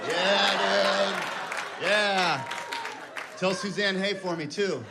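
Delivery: lightly voiced stoned friend; a hint of a laid-back stoner; stoner buddy. Friend chiming in from the corner, lazy stoner. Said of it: "Cameron's in the corner just like".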